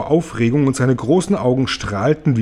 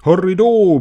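exultant whoop, pitched well up; bellowed cheer; 7 semitones higher, 4 dB louder than usual. A narrator's reading. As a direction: bellow it like a hunting cry. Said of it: "brüllte Tante Zinke".

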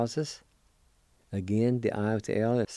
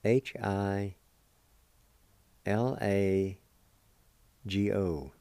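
spelling it out; much slower than usual. Shown as a demonstration. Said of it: "is spelled like this".

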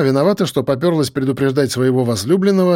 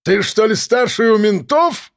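sneering call; 8 semitones higher than usual. Acted. Gunman sneering from window.

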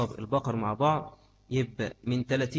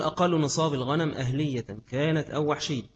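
reading text aloud; 3 semitones higher than usual. Acted. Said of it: "يقول".

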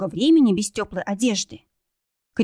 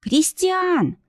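high cry; 9 semitones higher than usual. A narrator's reading. Kristina calls into the darkness for Christian, high cry. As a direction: call his name high into the dark. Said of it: "закричала она громко".

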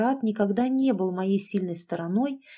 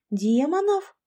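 high, rising question of alarm; frightened squeak; 7 semitones higher, 3 dB louder, slower than usual. A narrator's reading. Alexandra asks about demons in a frightened high squeak. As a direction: squeak it upward in disbelief. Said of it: "испуганно пропищала Александра".

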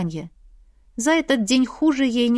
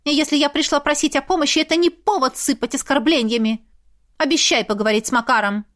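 indignant society lady; 6 semitones higher than usual. Acted. Lizaveta, indignant older lady.

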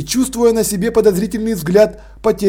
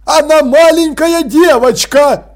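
высоко и громче, медленно; кричит в возмущении; заорал; 7 semitones higher, 5 dB louder, slower than usual. Acted. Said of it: "заорал господин Крохобор". (Крохобор орёт на Санту, высоко и громко)

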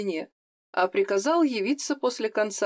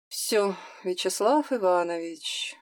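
sad; slower than usual. Acted. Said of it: "с грустью констатировал Турецкий".

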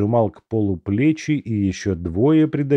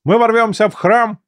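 soldier asking; 12 semitones higher, 5 dB louder than usual. A narrator's reading. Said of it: "спросил один из бойцов".

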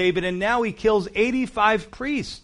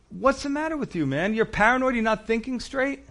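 higher, incredulous scolding; exasperated rebuke; 5 semitones higher than usual. Retold or imitated. Preacher voicing Ahimelech scolding paranoid Saul, incredulous. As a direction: snap him out of it. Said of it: "he says".

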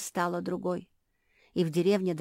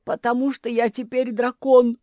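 whispered confession; 6 semitones higher, 10 dB louder than usual. A narrator's reading. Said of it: "шепнула Куки".

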